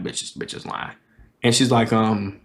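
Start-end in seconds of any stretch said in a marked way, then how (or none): 0.0-0.9 breathy whisper under the breath; whispered aside. Retold or imitated. Comic's inner thought about the lying girl, whispered. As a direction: hiss it like a private thought.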